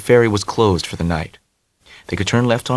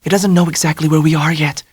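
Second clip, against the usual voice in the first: lightly voiced Dell; 7 semitones higher than usual. A narrator's reading.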